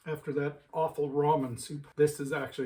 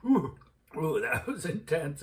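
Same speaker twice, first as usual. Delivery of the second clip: after eating wasabi. Real, not acted. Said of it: "It just went right through my sinuses".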